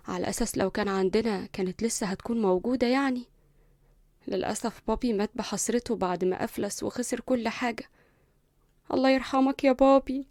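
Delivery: wry and quiet, mocking her own past; sarcastic. Linda remembering her bankrupt father, bitterly sarcastic. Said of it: "ابتسمت بسخرية".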